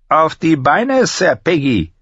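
high, taunting shout; called-out order. A narrator's reading. Master-at-arms orders the beaten boy up, calling out. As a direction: call out sharply to the fallen recruit. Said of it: "rief er".

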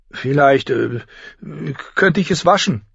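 put-on high, hesitant girl's offer; unsure. Arya offers her sister to wash it, unsure. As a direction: feel your way, halting between the words. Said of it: "sagte Arya unsicher".

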